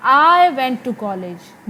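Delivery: slow, "I" stressed. Shown as a demonstration. Teacher contrasting with stress on "I". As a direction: lean on "I". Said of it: "मैं गई थी college".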